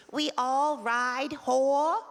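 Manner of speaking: mock Japanese accent. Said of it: "she goes like this".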